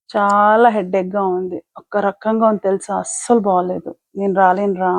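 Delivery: slow, put-on weary voice, mostly mild; faking a headache. Priya on the phone to her friend, mildly feigning illness. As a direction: pretend to be unwell so you can skip the party.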